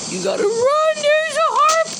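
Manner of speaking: high-pitched panicked warning; high urgent yell. Acted. Carl warning himself to run, high urgent yell. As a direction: cry out a warning.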